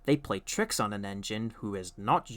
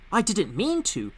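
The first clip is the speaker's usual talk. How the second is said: sad; 9 semitones higher, 5 dB louder than usual. A narrator's reading. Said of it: "said Thomas sadly".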